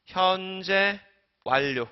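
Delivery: 현재, 완료 read as separate chunks with a pause between; reading demonstration. Shown as a demonstration. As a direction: hold 현재 high and level, pause, then 완료. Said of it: "이거 어떻게 읽어야 되지". ("현재", "완료"를 끊어서 읽기)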